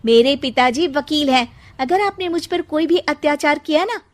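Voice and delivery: high, loud cheeky threat; defiant bride. Acted. Bride threatens mother-in-law with lawyer father, high defiant voice. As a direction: threaten her back with a smirk.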